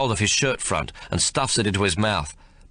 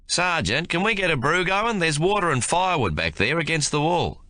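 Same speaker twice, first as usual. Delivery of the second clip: raised, hopeful lad's voice; eager young private; 9 semitones higher than usual. A narrator's reading. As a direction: ask for a brew like a keen kid.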